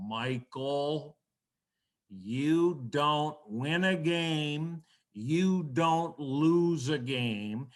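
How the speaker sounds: lightly voiced old coach, steady and deliberate; Joe Tate imitation. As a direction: gently lecture the young broadcaster, word by word. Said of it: "I'm gonna do my best Joe Tate imitation".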